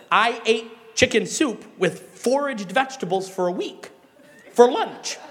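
words breaking into laughter; laughing while telling. Real, not acted. Pastor telling congregation about soup week, laughing. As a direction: laugh through the confession.

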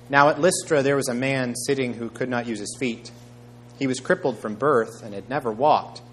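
measured, emphatic Bible reading; scripture reading. A narrator's reading. Preacher reading Acts to the congregation, measured and emphatic. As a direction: read the passage out clearly to a congregation.

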